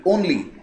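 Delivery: only said alone and firmly; a single firm only, set apart; stress on only. Shown as a demonstration. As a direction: underline the word only.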